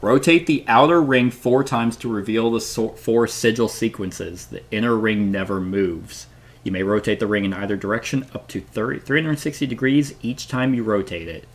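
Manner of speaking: clear, deliberate reading of puzzle instructions; rules read-aloud. Acted.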